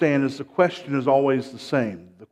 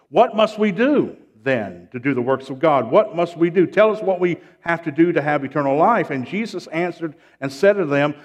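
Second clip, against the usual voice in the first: raised, emphatic pulpit voice; forceful preaching; 3 semitones higher, 5 dB louder than usual. Real, not acted. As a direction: read out the crowd's question with preaching force.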